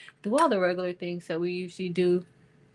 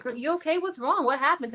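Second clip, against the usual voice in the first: concerned high-pitched check-in; 7 semitones higher than usual. Retold or imitated. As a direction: voice jumps high, asking if she's okay. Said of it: "I was like".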